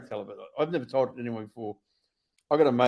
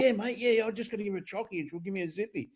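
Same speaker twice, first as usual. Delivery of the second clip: much higher, silly voice for the guard; mocking the guard; 10 semitones higher than usual. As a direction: send up the dopey guard in a high whine. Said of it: "And go".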